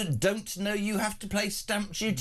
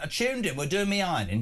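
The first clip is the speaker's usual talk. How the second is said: lightly put-on northern English voice for a mother-in-law; northern English accent. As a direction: quote her in a mock northern English accent. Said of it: "I'm doing that accent".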